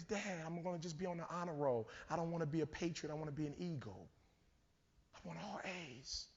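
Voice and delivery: earnest daughter. Retold or imitated. Voicing the studious daughter.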